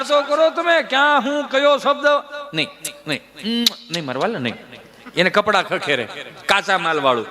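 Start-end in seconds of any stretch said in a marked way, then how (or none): 2.5-4.5 softer, lower soothing coo; soft hushing. Acted. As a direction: hush the child gently. Mother hushes child softly.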